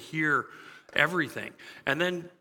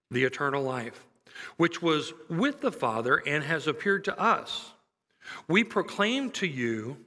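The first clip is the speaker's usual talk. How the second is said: scripture reading. Acted. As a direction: read it with weight and pauses. Reads scripture passage.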